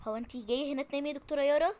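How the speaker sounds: loud, fast telling-off; scolding. Acted. Nurse loudly scolding the doctor caught napping. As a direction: snap at her for sleeping on the job.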